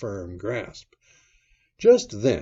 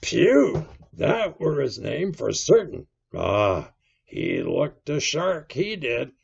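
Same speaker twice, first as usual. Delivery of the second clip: high, loud recollection; excited, raised seaman's voice; quite excited; 5 semitones higher, 6 dB louder than usual. A narrator's reading. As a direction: blurt out the memory excitedly. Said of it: "now quite excited".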